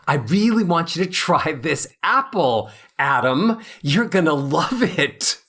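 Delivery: warmly inviting, with real feeling; warm, engaged. Shown as a demonstration. Offering Adam an apple, warm and enthusiastic. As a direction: make Adam want that apple. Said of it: "But if I say".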